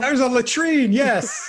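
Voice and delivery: hammed-up French accent, high and loud; over-the-top French accent answering a quiz; mock French accent. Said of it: "the most outrageous French accent".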